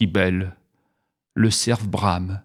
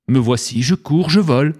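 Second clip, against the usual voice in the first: Simone answering; 4 semitones higher, 4 dB louder than usual. Acted.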